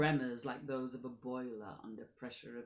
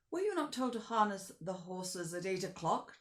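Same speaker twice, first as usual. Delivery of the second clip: a sharp, louder demand; 4 semitones higher, 5 dB louder than usual. Acted. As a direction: press the driver for an answer. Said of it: "demanded the Count".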